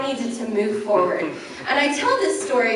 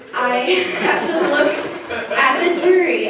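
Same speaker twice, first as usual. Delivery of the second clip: laughing through words; 5 semitones higher, 4 dB louder than usual. Real, not acted. Recalling facing the jury.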